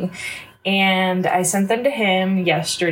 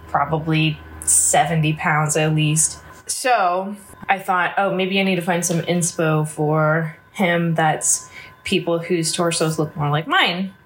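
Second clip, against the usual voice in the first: stuffy, blocked-nose voice; congested. Real, not acted. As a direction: talk through a bit of a head cold. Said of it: "Sorry, I'm a little congested".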